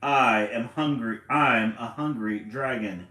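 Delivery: a hint of a menacing dragon; hungry dragon. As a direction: loom over the little owl. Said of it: "said the dragon".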